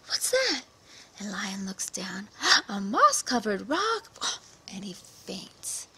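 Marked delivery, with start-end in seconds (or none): 0.0-0.6 very high, feigned "What's that?"; fake surprise. Spider points out the rock. 2.5-4.4 slow, breathy "A moss-covered rock." with "rock" rising; awed gasp. Acted. Lion gasps at the rock.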